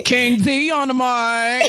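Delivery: slow, laughing hype-man call; radio announcer. Pretend. Announcing her like a DJ.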